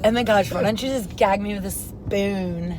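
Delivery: lightly put-on Valley Girl disgust. Friend joins in the improv, Valley Girl. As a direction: tease back as a Valley Girl. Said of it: "so that was Valley Girl".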